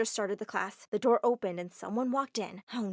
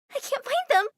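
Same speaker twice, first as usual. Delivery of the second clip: much higher, loud panicked shouting; frantic fit; 8 dB louder than usual. Acted. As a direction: wail for the lost sneakers. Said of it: "She threw a huge fit".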